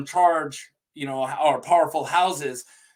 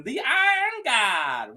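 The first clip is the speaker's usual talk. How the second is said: slow, higher, hammed-up epic title voice; odd dramatic voice; 7 semitones higher, slower than usual. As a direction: announce it like a mock movie trailer. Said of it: "I don't know what was with that voice".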